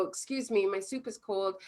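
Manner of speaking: soft, calm and polite; matter-of-fact request; gentle neutral customer. Shown as a demonstration. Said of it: "observing the facts".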